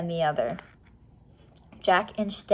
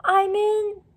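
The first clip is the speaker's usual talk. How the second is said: much higher, slow, breathless; gasping call; 13 semitones higher, 5 dB louder, slower than usual. A narrator's reading. Jack calling up from the moat, gasping. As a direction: call out while gasping for air. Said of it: "gasping for air".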